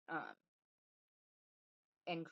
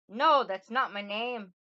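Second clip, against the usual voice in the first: loud, higher, slow Irish-tinged denial; Rumpelstiltskin, Irish accent; 6 semitones higher, 17 dB louder, slower than usual. Acted. Little man rejects the queen's guess, gloating in an attempted Irish accent. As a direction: draw out the refusal with an Irish lilt. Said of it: "like, an Irish accent".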